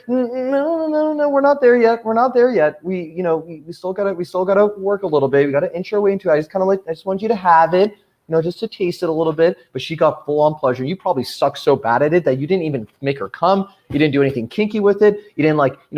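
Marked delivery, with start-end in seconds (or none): 0.1-9.6 lightly voiced coy girl, higher; mock girl's voice. Girl stalling her eager partner, in a lightly mocking higher voice. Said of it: "she's like".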